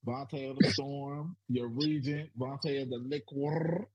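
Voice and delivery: hype intro. Acted. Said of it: "I do my own intro".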